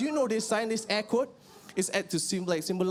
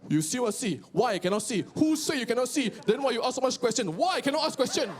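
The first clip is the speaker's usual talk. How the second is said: Chinese uncles bickering. Retold or imitated. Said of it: "two Chinese people talking".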